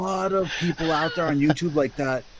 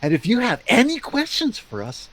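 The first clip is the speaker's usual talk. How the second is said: patronizing host. Retold or imitated. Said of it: "it would be like this".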